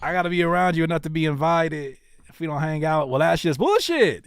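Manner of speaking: fast, like everyday conversation; conversational, talked out. Shown as a demonstration. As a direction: talk the lyric instead of rapping. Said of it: "Talk your lyrics out".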